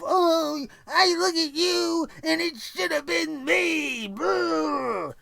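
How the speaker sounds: whiny, slow mock sob of a jealous wrestler; hammed-up whiny wrestler; mocking crybaby Dolph. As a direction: whine it out like a sulking crybaby. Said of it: "I don't like this crybaby Dolph".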